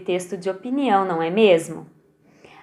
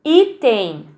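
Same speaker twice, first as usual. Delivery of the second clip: Item. with the first i louder; stress on I; 4 dB louder than usual. Shown as a demonstration. Teacher to pupils, Item. with i stressed. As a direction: lean on i in Item. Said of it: "No i".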